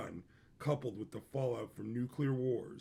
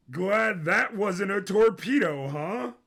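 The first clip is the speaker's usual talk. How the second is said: loud high Sisko; 6 semitones higher, 8 dB louder than usual. A narrator's reading. Sisko calls after the boy.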